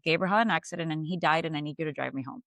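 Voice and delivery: dead flat voice. Retold or imitated. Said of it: "Like, dead face, like this".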